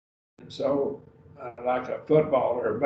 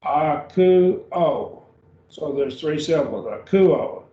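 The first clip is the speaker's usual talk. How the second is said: "akuo" with the u stressed, three syllables; 4 dB louder, slower than usual. Shown as a demonstration. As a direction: lean on the middle u of "akuo". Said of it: "the emphasis is on that u".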